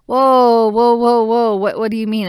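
high, loud startled whoas; jolted into alarm by the warning; loud panicked whoa, whoa. Retold or imitated. Shocked at warning of pain.

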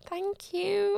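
whispered inner gushing; secret inner delight. Retold or imitated. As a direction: breathe it like a thrilled secret. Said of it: "deep inside, I was like".

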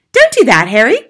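loud, high-pitched protest; crying out. A narrator's reading. Wife protesting the sound turned down, crying out. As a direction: wail it at your husband. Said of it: "Missus Wormwood cried out".

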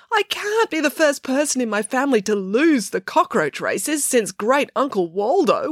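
put-on very high wailing girl's voice. A narrator's reading. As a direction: wail each line, pitched high. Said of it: "wailed Matilda".

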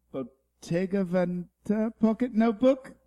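a light wildlife documentary narration; nature documentary narrator. Acted. Reading the Die Hard script as a nature documentary, lightly. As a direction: narrate the scene like a nature film. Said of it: "Planet Earth, uh, narrates Die Hard".

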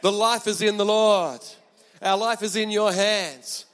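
slow, earnest worship line; sing-song devotion, lightly voiced; a touch of heartfelt praise; sincere praise. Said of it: "they're singing to God".

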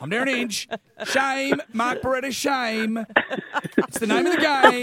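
half-hearted Hinch sign-off; a hint of a gravel-voiced TV host; Derryn Hinch impression. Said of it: "I think that's your best impression".

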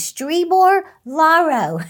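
sounding out each strange syllable slowly; slow puzzled reading. Retold or imitated. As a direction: reads odd foreign-looking words slowly, unsure. Dad reads strange napkin words.

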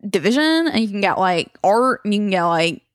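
mock ad read. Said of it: "And that's our ad".

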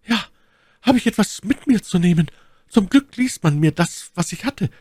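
high-pitched voice for the lady; Milady's voice. A narrator's reading. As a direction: play the lady far up in pitch. Narrator voices Milady in dialogue. (hohe Stimme der Mylady)

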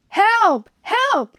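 high, loud cries for help; shouting for help. Acted. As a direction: call out as loud as you can for rescue. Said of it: "he shouted".

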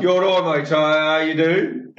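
mock Birmingham greeting; imitating a Birmingham local; Brummie accent. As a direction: greet someone in put-on Brummie. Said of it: "can't even do a Brummie accent".

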